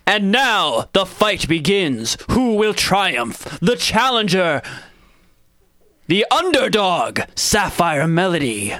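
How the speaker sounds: slow, drawn-out announcer voice; arena announcer. Acted. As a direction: announce it like a ringmaster.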